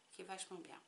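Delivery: a quiet murmured afterthought; half under her breath; soft echo to herself. Real, not acted. Quiet echo of her own praise.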